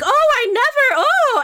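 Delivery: shocked gasp. Acted. Flustered NPC gasps at fight.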